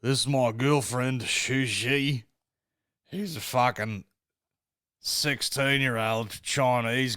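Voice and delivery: lightly voiced Australian addict; slow, drawn-out mock Australian accent; Australian correspondent. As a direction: imitate a rough Australian vlogger. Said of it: "disgusting heroin addict looking cunt".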